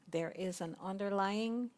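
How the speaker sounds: the word ignorance said gently and slowly, without any edge; said very nicely. Real, not acted. Speaker gently naming ignorance to the circle. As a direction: soften it, say "ignorance" as kindly as you can. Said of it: "I say that word very nicely".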